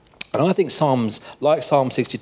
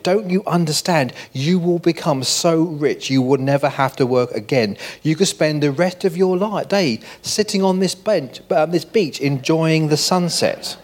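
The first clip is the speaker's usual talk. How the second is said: mock shout; 4 semitones higher than usual. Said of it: "and shouted".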